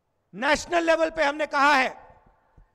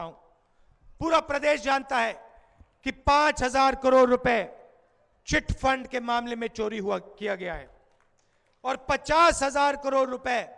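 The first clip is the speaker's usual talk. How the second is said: forceful rally orator, falling phrase ends; booming political rally speech. Real, not acted. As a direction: address a big crowd outdoors.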